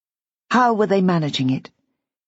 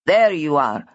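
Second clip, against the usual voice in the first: cried out; 2 semitones lower, slower than usual. A narrator's reading. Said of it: "cried a man".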